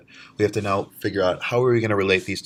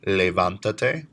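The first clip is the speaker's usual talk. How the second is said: slow demo; slower than usual. Shown as a demonstration. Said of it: "Three syllables back".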